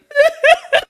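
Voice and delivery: high, loud mock sob; imitated bawling. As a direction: burst into comic bawling, half laughing. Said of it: "I just start bawling".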